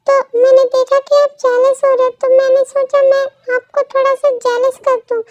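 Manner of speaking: a desperate lover saying sorry over and over; pleading boyfriend. Acted.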